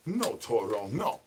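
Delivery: low, soft no-no to a pet; quiet pet scolding. Acted. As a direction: gently tell the pet off.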